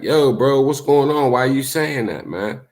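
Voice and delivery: pressing him on what he said; retold confrontation. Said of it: "I'm like".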